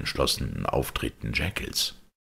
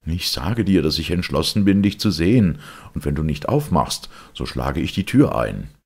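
loud, higher, forceful ultimatum; threatening; 5 semitones higher, 6 dB louder than usual. A narrator's reading. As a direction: threaten loudly through a closed door. Lawyer threatens to break door. (laute, entschlossene Drohung)

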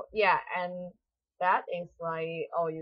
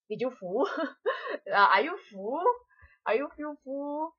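half-laughing, higher mock asking if you're full; laughing mock question; 8 semitones higher, 4 dB louder than usual. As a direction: tease the old greeting with a laugh. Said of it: "I feel very weird".

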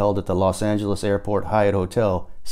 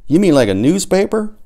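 excited realisation; 9 semitones higher, 6 dB louder than usual. A narrator's reading. Excited idea in narrator's head.

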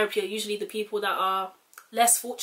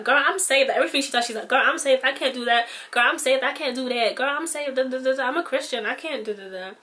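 sassy proud convert; 3 semitones higher than usual. Retold or imitated. Tony boasting to her friends she's saved, sassy and higher. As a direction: brag like you've just been saved and won't let anyone forget.

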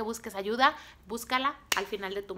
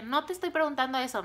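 firm, higher-pitched retort; bossy attitude; 5 semitones higher, 4 dB louder than usual. Retold or imitated. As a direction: cut her excuse off with authority. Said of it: "fíjense mi actitud".

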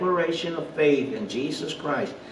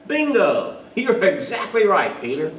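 much higher and louder cheer with a laugh; a jubilant "Bingo!" as if Jesus were pleased; delighted Jesus; 5 semitones higher, 5 dB louder than usual. Retold or imitated. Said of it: "I'm paraphrasing here".

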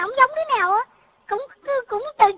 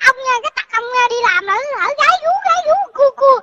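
nagging mom; 3 semitones higher, 5 dB louder than usual. Retold or imitated. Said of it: "má con nói với ba".

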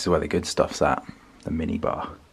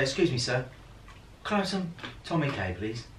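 higher, lightly voiced polite customer; Mickey Flanagan bit; 6 semitones higher, 11 dB quieter than usual. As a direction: ask the waiter sweetly, a bit higher. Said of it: "his thing where he goes".

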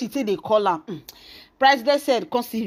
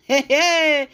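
high, drawn-out "hey"; long gossip's whoop of reaction; scandalised exclamation; 4 semitones higher, 3 dB louder than usual. Real, not acted. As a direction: exclaim over juicy gossip, pitched up. Reacts to the gossip just told.

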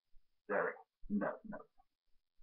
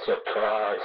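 Scream Three Ghostface voice; 5 dB louder than usual. Pretend. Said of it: "the C and D".

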